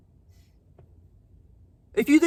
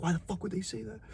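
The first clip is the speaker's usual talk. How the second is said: retold angry thought; 12 dB quieter, faster than usual. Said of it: "I'm like".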